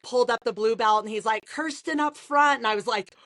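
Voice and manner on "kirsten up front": slow, high call to the front; owner calling out. Retold or imitated. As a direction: summon her up like a proud coach. Owner calls her forward.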